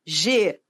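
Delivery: "Geladeira" broken into syllables, DEI held long; stressed syllable demo. Shown as a demonstration. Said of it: "isso é uma questão de pronúncia".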